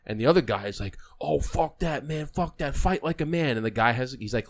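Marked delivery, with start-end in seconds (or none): 1.2-3.6 mock taunting. Acts out the aggressor in retelling.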